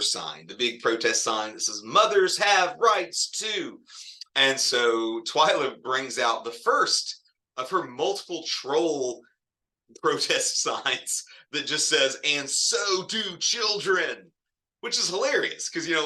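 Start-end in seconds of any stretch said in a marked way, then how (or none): 1.8-3.8 sign slogan. Retold or imitated. Reading protest sign. 12.2-14.3 troll sign slogan. Retold or imitated.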